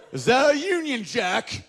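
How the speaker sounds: put-on high, slow child voice; slow, high wondering child; wide-eyed kid. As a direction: ask it like a grimy little kid, high up. Coal-dusted English kid.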